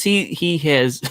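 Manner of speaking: stuttering over the words. Real, not acted. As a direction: trip over the first word. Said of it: "now I'm stuttering like he is".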